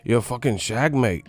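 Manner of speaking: mock British insult; British accent. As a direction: imitate a British heckler. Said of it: "Them British motherfuckers".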